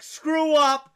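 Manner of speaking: loud, high, drawn-out taunt; retold mocking jeer. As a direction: jeer at your friend as one of the gang. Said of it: "their friends start joking at him".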